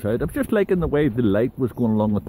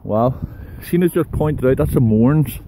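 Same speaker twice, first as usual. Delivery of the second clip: breathless uphill talk; winded, puffing between words; heavy breathing; 4 dB louder than usual. Real, not acted. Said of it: "Sorry about the heavy breathing".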